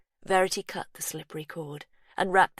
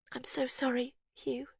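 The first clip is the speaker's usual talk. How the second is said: whispered sorrow; 8 semitones higher than usual. A narrator's reading. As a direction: whisper the bad news gently. Breaking bad news.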